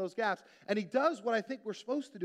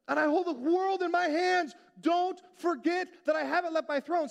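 higher, louder, booming mock God voice; God's voice; 8 semitones higher, 4 dB louder than usual. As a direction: play God, big and self-assured. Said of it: "And then God's like".

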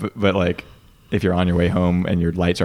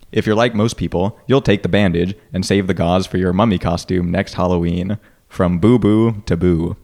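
bad acting. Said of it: "I sound like an idiot when I read these".

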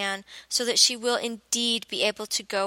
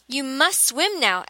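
gasping; 4 semitones higher, 3 dB louder, slower than usual. Acted. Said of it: "with a little gasp".

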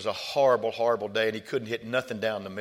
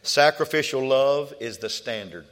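slow, loud preaching; 3 semitones higher, 5 dB louder than usual. Real, not acted. Preaching emphasis.

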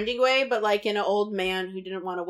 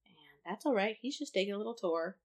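whisper; 7 dB quieter than usual. Real, not acted. Whispered aside while recapping.

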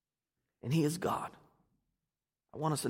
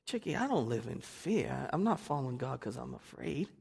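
softer, earnest and gentle; sincere; 7 dB quieter than usual. Retold or imitated. Joe answering hostile Chicky, softer and sincere. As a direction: say it quietly like you mean every word. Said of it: "and Joe meant this".

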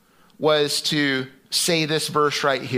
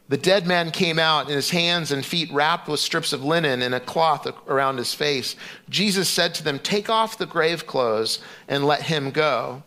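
measured scripture reading; 2 semitones higher than usual. Acted. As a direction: read the Bible passage to the congregation. Reads scripture passage aloud.

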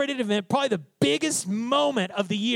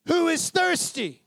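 high, drawn-out proclamation to a huge crowd; full-voiced open-air preacher's call; shouting to crowds; 9 semitones higher than usual. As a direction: shout the invitation out to everyone. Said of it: "stood up and shouted to the crowds".

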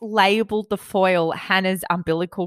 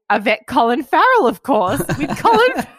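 giggly reading; 5 semitones higher, 3 dB louder than usual. Retold or imitated. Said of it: "And I say".

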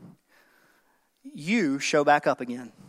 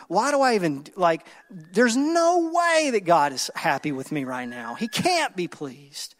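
shameful self-talk. Retold or imitated. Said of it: "start feeling so shameful".

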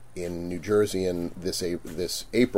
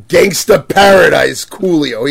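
surprised; 7 semitones higher, 14 dB louder, slower than usual. Retold or imitated. Disbelief that a rapper wants fangs.

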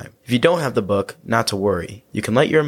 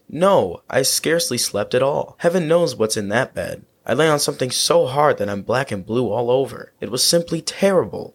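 cartoon princess; 3 semitones higher than usual. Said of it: "said the princess".

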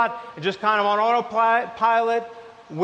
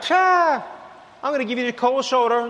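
mock huffy scoff; 3 semitones higher than usual. Person sulking after not getting their way, mock huffy. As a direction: brush them off like a sulking kid. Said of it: "you're like".

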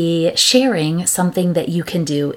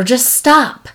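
mock parent scold; 6 semitones higher, 4 dB louder than usual. Parent scolding pestering kid.

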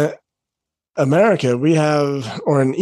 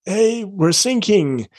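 mock distress call; 5 semitones higher than usual. English speakers radio the German Coast Guard, mock distress.

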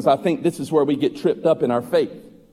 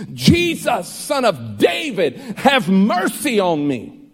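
calling out; 3 semitones higher, slower than usual. Acted. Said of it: "he called out to the messiahship".

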